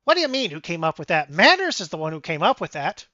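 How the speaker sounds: lightly voiced mouse squabble; fast, loud, indignant bursts; feisty little mouse. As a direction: complain as a small, mouthy mouse. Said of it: "the little mouse speaks up".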